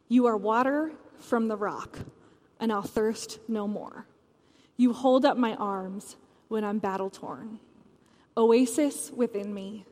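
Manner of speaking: measured reading with long pauses between lines; poem reading. Acted. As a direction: read each line like a prayer, letting it settle. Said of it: "Callie wrote another song that goes like this".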